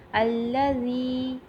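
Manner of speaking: الذی with a soft, drawn-out ذ; soft zaal. Shown as a demonstration. Teacher showing students a soft ذ in الذی. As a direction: stretch الذی slowly, soft on the ذ. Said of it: "زال کو نرمی سے ادا کریں گے".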